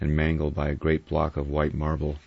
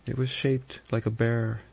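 shaking, quavering; 7 semitones higher than usual. A narrator's reading. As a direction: repeat it in shocked dread, pitched up. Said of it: "her voice shook and quavered".

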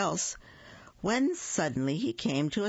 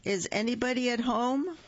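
raised call into a rabbit hole; 7 semitones higher than usual. Acted. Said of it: "called out".

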